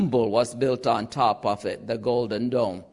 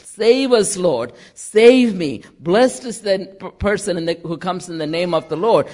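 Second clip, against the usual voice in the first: louder, lightly acted declaration; priest declaring; 3 semitones higher, 5 dB louder than usual. Priest singing the first part, declaring. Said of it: "declaring that statement".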